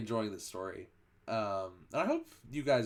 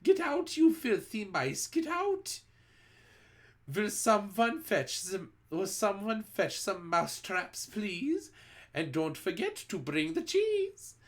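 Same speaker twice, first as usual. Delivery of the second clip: teachers shouting; 9 semitones higher than usual. A narrator's reading. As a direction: shout from the desks at the mice. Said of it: "stand upon the desks and shout".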